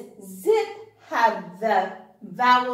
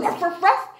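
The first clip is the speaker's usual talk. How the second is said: dog bark; 4 semitones higher, faster than usual. Retold or imitated. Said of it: "like a dog goes".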